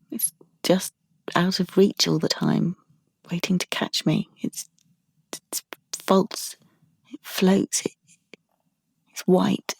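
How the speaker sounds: soft, halting, haunted murmur. Acted. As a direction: falter through it quietly with long pauses. Haunted recollection of the photo.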